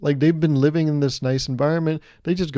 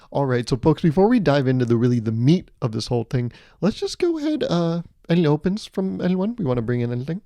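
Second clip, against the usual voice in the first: corporate meeting host. Retold or imitated. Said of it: "people that talk like that".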